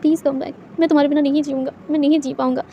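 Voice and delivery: a mild sobbing plea; crying on his knees. Acted. Boss kneels watching Wing leave, softly tearful. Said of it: "रोते हुए कहता".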